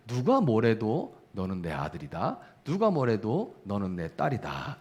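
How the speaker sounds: gentle fatherly assurance. Acted. God's voice to child.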